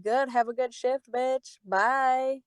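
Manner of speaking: breezy parting jab. Retold or imitated. Fired server leaving the bartender, breezy parting jab. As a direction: toss it off sweetly to sting.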